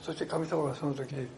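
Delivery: ordinary talk, nothing marked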